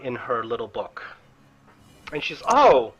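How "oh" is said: Sister Grail greeting. Acted. Sister Grail welcoming the Doctor back, delighted.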